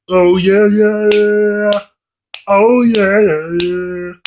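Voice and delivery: mock cheering. Mock cheer at Rat Race.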